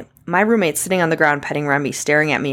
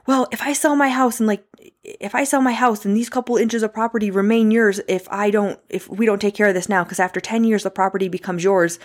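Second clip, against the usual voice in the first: mock complaining neighbor; 5 semitones higher than usual.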